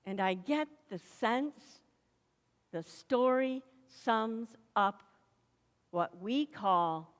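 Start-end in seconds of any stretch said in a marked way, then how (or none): none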